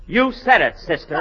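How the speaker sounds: punchy opening, dropping on the last word; hammy, emphatic bit-part reading. Acted. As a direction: overplay a tiny line with emphasis. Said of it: "trying to make it more emphatic".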